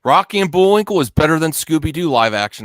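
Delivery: loud, emphatic claim; heated declaration. Real, not acted. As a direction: declare it loudly. Loud heated movie argument.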